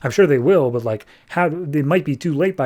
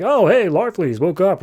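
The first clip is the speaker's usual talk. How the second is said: higher, lightly acted hello; mock-casual greeting; 5 semitones higher than usual. Captors see their prisoner wake, mock-casual greeting. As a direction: greet the prisoner breezily, pitched up.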